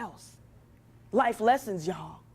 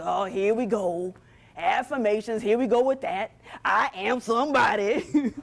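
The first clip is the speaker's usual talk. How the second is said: mock eye-roll; 2 semitones lower than usual. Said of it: "I saw some shoulders go down like".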